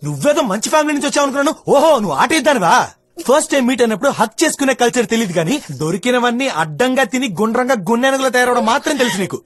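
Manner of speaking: heated insulting rant. Acted. Man mocking the woman's manners and looks, heated rant. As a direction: pile on the insults, rising heat.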